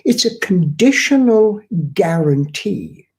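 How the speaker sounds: "conditional" given firm emphasis; "conditional" spelled out with weight; stress on CONDITIONAL. Shown as a demonstration. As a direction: hit the word "conditional" deliberately. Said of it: "I stress the word conditional".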